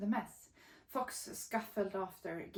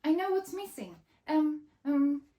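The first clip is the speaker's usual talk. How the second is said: panicked babble; 8 semitones higher, 10 dB louder than usual. Acted. Frantic Mole under threat.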